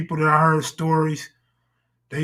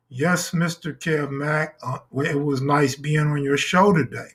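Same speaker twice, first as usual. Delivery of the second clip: robot voice; 2 semitones lower than usual. Retold or imitated. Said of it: "he speaks like a robot".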